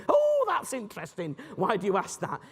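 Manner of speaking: a bright interested opener that invites them to explain; bright curious reply. Shown as a demonstration. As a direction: sound openly curious, not defensive. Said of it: "what we're doing is going".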